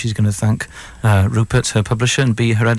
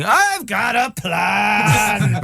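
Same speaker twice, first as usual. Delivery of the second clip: imitating John; 10 semitones higher, much slower than usual. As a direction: blurt it out way up high like a man with a scheme. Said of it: "And John's going".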